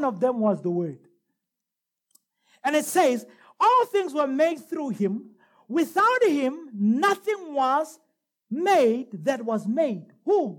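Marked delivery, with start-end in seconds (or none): 3.6-10.1 very slow, weighty verse reading; deliberate preacher reading aloud; scripture reading. Real, not acted. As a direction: draw out each phrase for the congregation. Reads scripture to the congregation.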